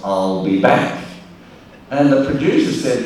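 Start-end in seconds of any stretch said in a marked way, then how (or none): 0.0-1.0 slow movie line. Retold or imitated. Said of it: "the line was".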